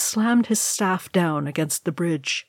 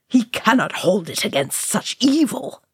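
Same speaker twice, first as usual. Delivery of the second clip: higher, choked dismay; 4 semitones higher than usual. A narrator's reading. Balin watching the wizard face the Balrog, choked. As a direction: choke it out in dread. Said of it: "Balin choked".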